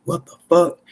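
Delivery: sudden startled outburst at the gunshots. Retold or imitated. Hearing gunshots next door, a sudden startled outburst. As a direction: blurt it out, caught off guard. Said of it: "and I'm like".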